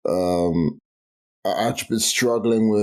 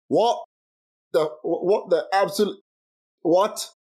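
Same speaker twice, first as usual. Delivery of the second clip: incredulous; 7 semitones higher than usual. Real, not acted. Exasperated outburst at advice.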